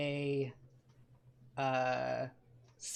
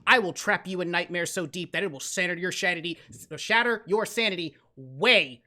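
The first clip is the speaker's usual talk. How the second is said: superhero voice; 2 semitones higher, 4 dB louder than usual. Acted. Superhero ordering four foes into custody, in a loud, menacing hero voice. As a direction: lay down the law like a righteous hero. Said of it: "in my best superhero voice".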